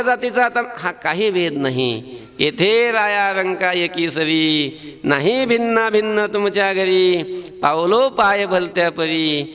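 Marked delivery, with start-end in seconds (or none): 2.4-9.4 slow, chanted devotional verse; abhang recitation. Acted. Preacher reciting Tukaram's verse to the audience, slow and chanted. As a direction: intone the saint's lines slowly.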